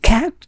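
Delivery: cat said with a খ sound; cat with aspirated K. Shown as a demonstration. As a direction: puff of air on the K in cat. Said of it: "সি কে in most of the cases খ বলবেন".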